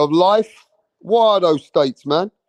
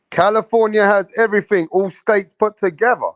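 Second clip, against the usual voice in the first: surprised repeat; 3 semitones higher, faster than usual. Real, not acted. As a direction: repeat it as if you can hardly believe it. Repeats comment after asking "Really?.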